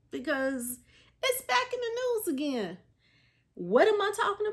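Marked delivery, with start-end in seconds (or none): none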